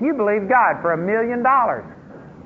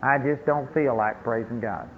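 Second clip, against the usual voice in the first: mock sulky complaint; 7 semitones lower, 5 dB quieter than usual. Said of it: "then you'll say".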